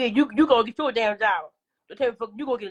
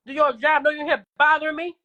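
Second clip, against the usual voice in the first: higher, louder irritated challenge; real irritation, raised and insistent; confrontational challenge; 5 semitones higher, 4 dB louder than usual. Real, not acted. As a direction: press the question harder, pitched up. Repeats the challenge to a viewer.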